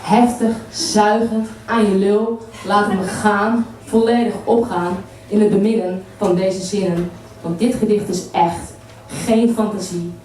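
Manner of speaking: measured spoken-word delivery in short phrases; poetry recital. Acted. Poet performs an erotic poem to a live audience, poetry recital. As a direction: recite it line by line, with weighted pauses.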